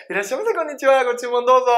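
high, lilting counter greeting; coffee shop staff. Acted. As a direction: imitate a barista calling out welcome. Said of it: "スタバなんかいいよね".

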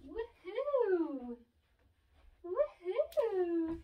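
excited cheer. Real, not acted. Cheering baby on.

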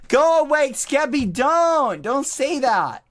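high, loud hurt outcry; wounded protest. Real, not acted. Answering Skeppy's go away, high and loud in hurt protest. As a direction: protest loudly, stung.

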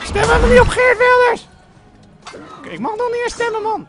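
very high, loud screeching yell; shouted protest. Real, not acted. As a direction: yell it out in exaggerated indignation. Protests at other players.

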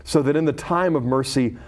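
measured, solemn reading of a scripture story. Acted. Reads scripture story aloud.

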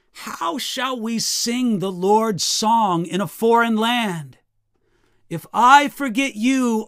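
emphatic, declaimed psalm reading; scripture reading. Acted. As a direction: proclaim the psalm, settling at the close. Reads scripture aloud.

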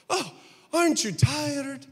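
a hint of an Italian accent, slow; lightly voiced Italian cabbie, drawn out; mild Italian accent; Italian taxi driver. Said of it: "This is my Italian taxi driver".

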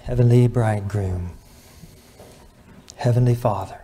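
measured, earnest public prayer; reverent prayer. Real, not acted. Preacher prays over the congregation's marriages, reverent. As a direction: address God earnestly, with pauses between phrases.

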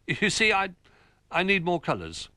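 high, hesitant small bear; flustered Little Bear. Acted. Little Bear excusing himself to Old Bear, flustered and high. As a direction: stammer out a hurried excuse.

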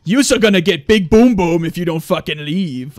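lightly put-on voice with laughter; mock scolding. Streamer imagining the heroes sending Jar Jar away, mock scolding. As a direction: act out telling an unwanted companion off. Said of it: "I'm surprised they didn't say".

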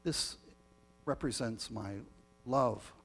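measured, solemn prayer voice; liturgical prayer. Acted. Leads the communion prayer.

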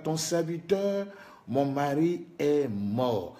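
slow, drawn-out imitation of a plea; retold crying out. Preacher voices the widow appealing to the prophet, mild retold cry. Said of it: "elle cria à l'Éternel".

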